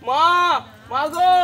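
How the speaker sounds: calling through the house for mother; searching household call. Acted. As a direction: call out for someone out of sight. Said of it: "এত চিৎকার করছিস কেন".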